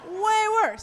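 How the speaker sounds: high, loud laughing repeat; real laughter through the words. Real, not acted. Laughing about goalkeeper parents.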